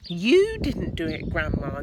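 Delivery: put-on boy calling up to grandma, insistent; George insisting. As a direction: protest up to the roof. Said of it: "George said".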